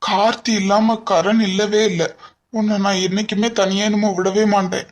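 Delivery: soft, low, near tears; tearful promise. Acted. Husband reassuring frightened wife, softly tearful. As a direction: promise her through tears, quietly.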